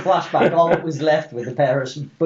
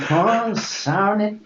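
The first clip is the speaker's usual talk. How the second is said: put-on old prospector; 4 semitones higher, much slower than usual.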